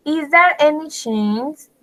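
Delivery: slow, careful reading of an example; slow model sentence. Shown as a demonstration. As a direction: read the example slowly for learners. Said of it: "teacher reads indirect example". (lectura lenta del ejemplo)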